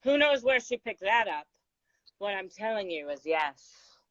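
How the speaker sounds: unhurried, poised recital of a poem; poem reading. Acted. Reading her poem to the host, measured recital.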